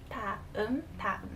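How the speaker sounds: 다음 softly, with a gentle D near T; soft, unforced first consonant in 다음. Shown as a demonstration. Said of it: "it would be a soft D sound".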